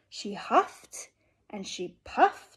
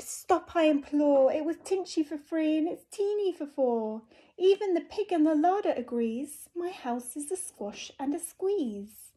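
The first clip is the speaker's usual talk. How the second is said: put-on distressed old lady; 5 semitones higher than usual. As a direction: wail about the cramped house. Lady cries out.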